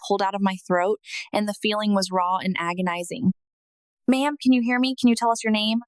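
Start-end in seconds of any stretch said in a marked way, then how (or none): 4.1-5.8 loud and urgent. Retold or imitated. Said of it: "loud and urgent".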